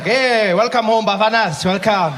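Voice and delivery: mock proud parent greeting the team; indulgent parent. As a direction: praise a failing child too kindly. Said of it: "He's there, like".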